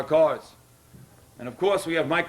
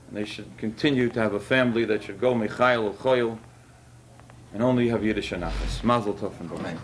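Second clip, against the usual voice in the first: holding back tears as he blesses the family; emotional; 5 semitones lower than usual. Real, not acted. Rabbi blessing the Fishkins, voice lower and thick with emotion. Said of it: "Excuse me if I get a little emotional".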